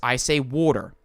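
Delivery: "water" with the final R sounded; rhotic R in water. Shown as a demonstration. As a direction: say "water", Australian first vowel, clear R. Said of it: "the way that I pronounce words".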